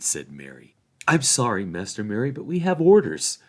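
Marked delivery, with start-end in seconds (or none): 1.1-3.4 nervous gatekeeper. A narrator's reading. Gatekeeper hobbits answer.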